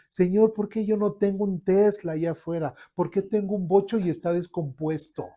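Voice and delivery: mock whiny grumble; whiny complaint to God. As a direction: complain like a spoiled believer. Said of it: "o imagínense yo".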